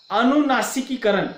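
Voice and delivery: अनुनासिकीकरण with नासिकी given extra weight; syllable stress. Shown as a demonstration. Teacher demonstrating stressed sounds in an example, stressed. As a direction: push the middle of अनुनासिकीकरण a little. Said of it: "थोड़ा सा बल देकर उच्चारित करते".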